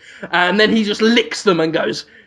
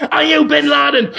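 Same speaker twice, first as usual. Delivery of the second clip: a hammed-up question, higher, breaking into laughter; laughing mock question; 5 semitones higher than usual. The hero asks a passerby, laughing, higher. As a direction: ask a stranger while cracking up.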